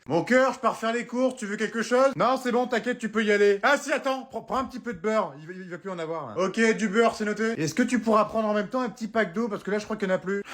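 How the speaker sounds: high, sing-song wife voice; chirpy partner reeling off errands; sweet wife voice. Acted. Wife sending her partner shopping, high and chirpy. Couple shopping list sketch.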